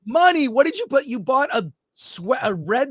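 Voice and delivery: high, loud disbelief; incredulous. Real, not acted. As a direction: scoff in high surprise. Mocking cohost's costume.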